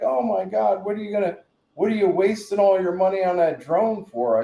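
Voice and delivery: high mock-appalled voice; imitated scolding lady. Lady scolding about wasted money, imitated in a high voice. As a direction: put on a high, disapproving neighbour.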